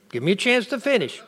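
hurried firm repeat; quick repeat. Real, not acted. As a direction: rattle off "Give me a chance to finish" quickly.

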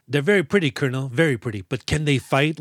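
lightly hammed-up mock general; mildly overplayed officer act; hamming it up. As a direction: play at inspecting troops, a touch pompous. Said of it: "really hamming it up".

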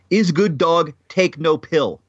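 joking mock Russian accent; amateur Russian accent for a gag. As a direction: slip into a bad Russian accent. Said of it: "My Russian accent is so bad".

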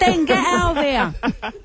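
slow, high and laughing soap voice; soap opera character voice. Retold or imitated. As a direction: ham up the soap drama, laughing. Acting out EastEnders scene.

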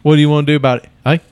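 challenging mock Brummy; Brummy accent. Host playing a combative Birmingham local, Brummy accent. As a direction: square up in a put-on Brummy accent. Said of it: "I'm a Brummy".

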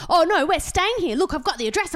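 high, loud gabbling; loud high nervous babble; imitating a fast-talking tweaker. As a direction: rattle it off like a jittery tweaker. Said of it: "talking mile a minute".

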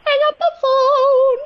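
loud firm order; commanding call. Pretend. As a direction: order it loudly and firmly. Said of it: "I like my opera singing".

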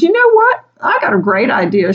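teasing sarcastic offer; hammed-up cheerful sarcasm; sarcastic smart aleck. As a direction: jump way up, mock bright. Smart aleck Mala's joke.

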